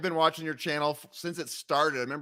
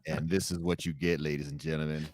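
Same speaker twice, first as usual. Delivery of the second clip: deep, sultry radio voice; low, smooth radio announcer; sultry narrator; 8 semitones lower, 5 dB quieter than usual. Shown as a demonstration. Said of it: "deep, sultry radio voice?".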